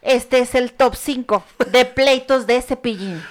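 slow, punchy countdown announcer; clickbait video narrator. Acted.

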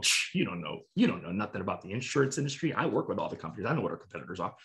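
mock know-it-all brushing the client off; defensive condescension. Shown as a demonstration. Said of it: "I don't do that. I'm not getting defensive".

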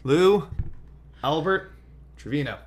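hammed-up stadium announcer; ballpark announcer. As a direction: call him up to the plate. Announcing inductee with flair.

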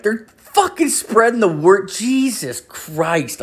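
very high, exaggerated parroting; mocking echo. Host mimicking his neighbour's excuse, high mocking disbelief. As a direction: parrot it way up high, ending in slow exasperation.

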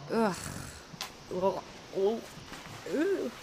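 repeated grunts of revulsion; short retching "ugh" noises; disgusted groans. Acted. Woman handling filthy pajamas, repulsed groans.

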